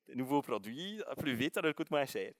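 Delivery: mock ad voice. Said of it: "On dirait une publicité".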